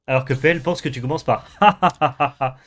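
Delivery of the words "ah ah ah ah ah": evil chuckle. Shown as a demonstration. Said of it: "si tu es un méchant de film".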